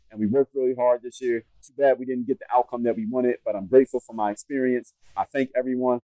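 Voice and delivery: lightly voiced press-release politeness, close to his own voice; polished PR statement. Shown as a demonstration. Player thanking club and fans, in a mild PR-statement tone. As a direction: read it like a careful public relations statement. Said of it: "That's the way you need to talk, just like that".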